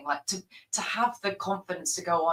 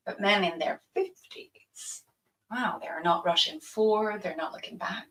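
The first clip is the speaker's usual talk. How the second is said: lightly acted flirtatious scene, mostly her own voice; playing her stage role. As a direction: deliver the monologue as a wry, knowing woman. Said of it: "can we reenact that?".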